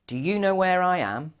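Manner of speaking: high-pitched mock shout down; lightly acted call to someone below. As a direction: call out for directions from above, half-shouted. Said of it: "So he shouts down".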